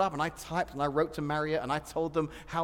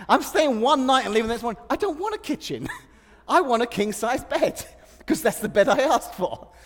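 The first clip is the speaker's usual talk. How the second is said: raised, fast and high, fed up; exasperated guest laughing through his protest; indignant complaint; 4 semitones higher, 6 dB louder than usual. Retold or imitated. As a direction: push back hard at the hotel clerk. Indignant retold complaint at hotel.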